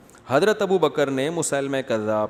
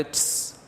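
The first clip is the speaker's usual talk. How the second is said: hissed reply; 8 dB quieter than usual. Retold or imitated. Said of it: "جواب میں کہتے".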